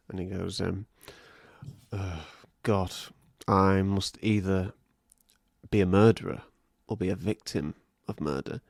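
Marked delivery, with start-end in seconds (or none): 1.9-8.6 mock brooding. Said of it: "was dwelling on the, uh, prophecy".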